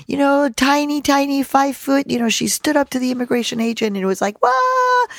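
hammed-up mighty little mother; big voice. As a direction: tell it in a huge high voice. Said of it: "gets her big voice".

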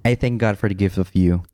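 measured, mildly dramatic read; dramatic letter reading. Acted. Husband reading his old love letter to his wife, mildly dramatic. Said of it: "like, a dramatic voice?".

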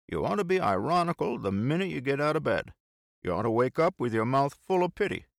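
high, emphatic teasing lecture; bantering friend, mock tirade. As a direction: harangue a pal with mock reproach. Bill lectures his friend.

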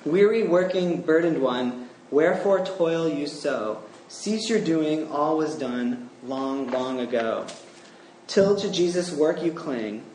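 slow, solemn recited verse; hymn recitation. Acted. Preacher reads James Proctor's hymn to close, slow and solemn. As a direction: read the hymn lines like a poem. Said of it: "his hymn goes like this".

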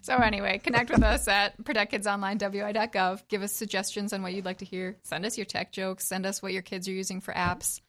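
flat, mechanical robot voice read. Acted. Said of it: "That was her best robot voice".

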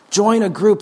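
rising urgent repeat. Shown as a demonstration.

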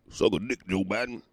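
giggling through the insult; laughing insult. Real, not acted. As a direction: laugh it out at Joe Biden.

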